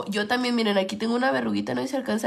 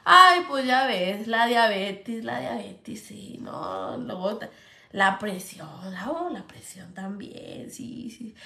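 put-on lower, fading old lady listing ailments; grandma complaining; 3 semitones lower, slower than usual. Grandma telling the ladies her diabetes and pressure, low and tired. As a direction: sigh out her illnesses like grandma. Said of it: "Mi abuelita con su".

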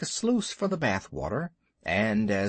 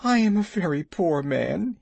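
high, louder tearful wail of a muskrat; mock sob, high and louder; sobbing; 6 semitones higher, 4 dB louder than usual. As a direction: blubber it out miserably. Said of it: "he sobbed".

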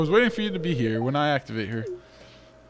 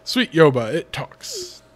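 loud, awed gasp of wonder; amazed; 2 semitones higher, 4 dB louder, much slower than usual. Acted. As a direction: react like seeing a miracle. Amazed reaction to robot.

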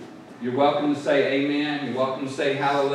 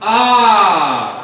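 loud, raised, drawn-out cry to God; emotional cry; 4 semitones higher, 9 dB louder than usual. Shown as a demonstration. Preacher showing church how Jeremiah said it, emotional cry. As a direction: put big emotion into it. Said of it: "you gotta put some emotion in this".

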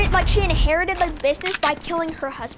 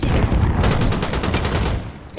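words lost in a real laugh; much slower than usual. Real, not acted. Gamer recounting traded shots, laughing through the words.

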